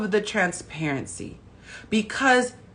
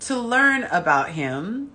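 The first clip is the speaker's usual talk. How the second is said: pompous voice; 4 semitones higher, slower than usual. Pretend. Mock pompous phrasing.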